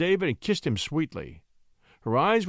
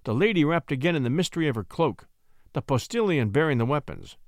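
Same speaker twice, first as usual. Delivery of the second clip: measured, dramatic literary narration; story narration. A narrator's reading. Narrator closing a tale of a slain poet, measured narration. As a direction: read it like an old tale, in deliberate phrases.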